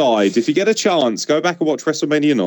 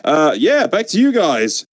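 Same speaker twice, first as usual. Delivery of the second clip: mock announcer; 7 semitones higher than usual. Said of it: "And he's like".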